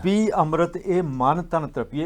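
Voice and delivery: slow, measured verse quotation; scripture recitation. Retold or imitated. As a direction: recite the sacred line with drawn-out words. Continues quoted scripture verse. (Gurbani ਦਾ ਹੌਲੀ, ਠਰ੍ਹੰਮੇ ਵਾਲਾ ਉਚਾਰਨ)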